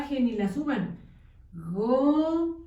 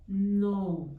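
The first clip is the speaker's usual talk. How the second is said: "Gu-sa-no" split into three syllables with pauses; 3 semitones lower, slower than usual. Shown as a demonstration. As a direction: dictate "Gu-sa-no" slowly, one syllable at a time. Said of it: "dictating syllable by syllable".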